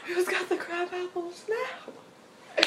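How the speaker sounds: slow, high, laughing jeer; laughing taunt. Real, not acted. Friend joining the taunt, slow laughing gloat.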